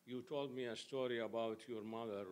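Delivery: usual speaking voice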